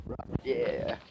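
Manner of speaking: hushed aside; whispering. Real, not acted. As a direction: say it under your breath.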